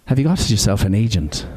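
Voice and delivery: light Irish lilt imitating Edna O'Brien; a hint of an Irish accent, mimicking her. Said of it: "I'll do the accent".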